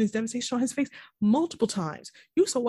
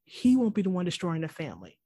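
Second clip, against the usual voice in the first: lightly mock his righteousness, spacing out the words; imitated self-righteous anger. Cohost retelling a father's rebuke, mildly self-righteous and angry. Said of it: "gets all self-righteous and angry".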